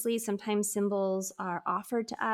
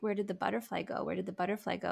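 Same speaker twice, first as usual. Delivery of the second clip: imitating a whimpering toddler; 6 dB quieter, much faster than usual. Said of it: "crying really hard and, like, whimpering".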